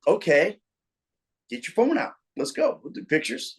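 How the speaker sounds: rally them for a quick photo; eager invitation to the fans to take pictures; upbeat, ready for photos. Retold or imitated. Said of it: "and it's like".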